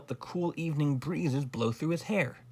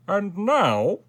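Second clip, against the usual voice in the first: loud, high, pleased royal voice; smiling king; 7 semitones higher, 7 dB louder than usual. A narrator's reading. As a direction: turn genial with a big audible smile. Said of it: "smiled the king".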